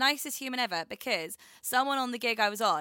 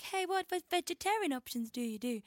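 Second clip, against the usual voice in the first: imitating herself asking; 10 semitones higher than usual. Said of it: "so I was like".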